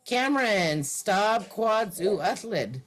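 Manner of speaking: slow, careful teacher model; slow model sentence. Shown as a demonstration. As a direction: say it slowly so they can copy. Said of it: "Anyone just try that next line?".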